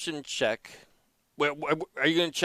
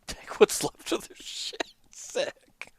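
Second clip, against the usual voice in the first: mutter; 8 semitones higher, 4 dB quieter, much slower than usual. Real, not acted. GM mutters aside.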